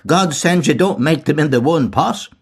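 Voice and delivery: high, coaxing crone voice; wheedling old woman. A narrator's reading. Mulligan still wheedling as the old woman. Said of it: "went on hewing and wheedling".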